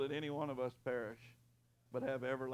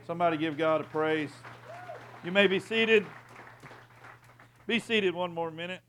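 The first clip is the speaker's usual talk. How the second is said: loud call to the crowd; 5 semitones higher, 10 dB louder than usual. Real, not acted. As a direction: lift the congregation up. Calling to congregation.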